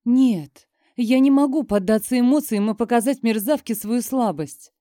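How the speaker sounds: ordinary delivery, nothing marked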